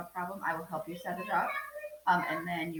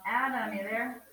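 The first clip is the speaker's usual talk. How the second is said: raised roll-call voice, rising at the end; 5 semitones higher, 5 dB louder than usual. Real, not acted. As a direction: call out to check who is present. Roll call, calling a student.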